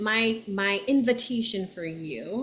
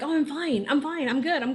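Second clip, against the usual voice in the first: higher, breezy "I'm fine" brush-off; mock cheerful denial; 5 semitones higher than usual. Mimicking her own forced cheer, lightly higher. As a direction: chirp it like nothing's wrong. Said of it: "wanted to jump into like".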